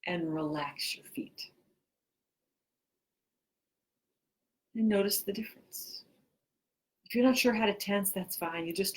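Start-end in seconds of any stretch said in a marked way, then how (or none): 0.1-6.1 measured instructions with long pauses; guided relaxation. Real, not acted. Teacher leading listeners to tense and relax, guided relaxation. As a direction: give each cue, then leave silence to follow it.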